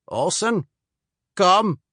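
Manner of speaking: lightly voiced Swede calling him over; slight Swedish accent. Swede at the barn calls the soldier inside, light Swedish accent. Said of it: "He spoke with only a slight accent".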